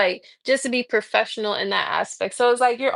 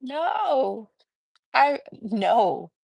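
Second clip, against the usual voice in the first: fake agreement; 4 semitones higher, much slower than usual. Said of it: "I was like".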